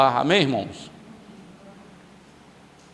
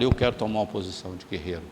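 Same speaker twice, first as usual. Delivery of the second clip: congregation declaration model; 6 semitones lower, 4 dB quieter than usual. Shown as a demonstration.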